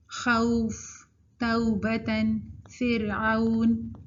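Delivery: خوف، توبتن، فرعون with slow "au" glides; correct leen. Shown as a demonstration. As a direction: glide from a to u in each word. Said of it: "ہم نے اس میں یہ لین کی صفت ڈال دی".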